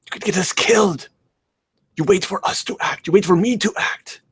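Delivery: high, furious scolding. Acted. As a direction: scold him, fuming. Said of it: "I'm furious, I'm fuming".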